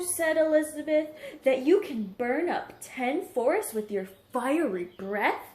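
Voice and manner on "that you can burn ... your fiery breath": a touch louder teasing question; eager princess. Acted. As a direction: egg the dragon on. Elizabeth tricking the dragon.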